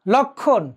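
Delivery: লক্ষণ as lok-khon, no m; silent ম-ফলা. Shown as a demonstration. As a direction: repeat লক্ষণ with doubled kh and silent m. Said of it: "উচ্চারণটি হলো না".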